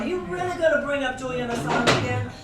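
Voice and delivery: mock exasperation. Mock dinner guest complaining.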